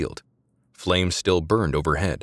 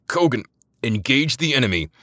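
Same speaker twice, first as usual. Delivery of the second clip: loud, higher angry growl of an order; 6 semitones higher, 5 dB louder than usual. A narrator's reading. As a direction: growl it, furious at the insubordination. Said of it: "Rennick growled".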